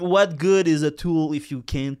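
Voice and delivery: sultry radio ad read; sensual ad voice. Retold or imitated. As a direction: purr it like a tool commercial. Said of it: "pour qu'elle parle sensuellement".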